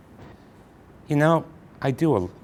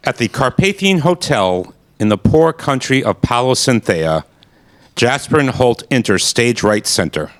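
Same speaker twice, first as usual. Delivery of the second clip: radio play narration. Acted. Narrator setting the scene at the Carpathian Hotel, announcer voice. Narrator reads stage directions.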